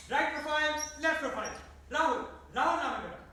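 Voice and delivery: projected actor's slate; audition slate. Acted. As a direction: announce profiles and name for the camera.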